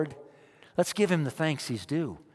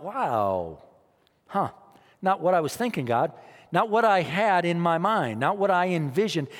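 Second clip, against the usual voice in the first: mock disappointed Israelites; 3 semitones higher than usual. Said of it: "they thought".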